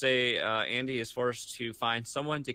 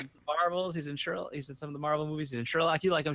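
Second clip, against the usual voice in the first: coaxing pitch; 7 semitones higher than usual. Retold or imitated. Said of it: "I was like".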